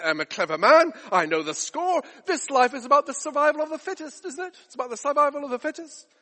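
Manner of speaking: lightly acted self-assured boaster; a hint of swagger, lifting into insistence; cocky man of the world. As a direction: play the clever man who knows the score. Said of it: "That's how he spoke".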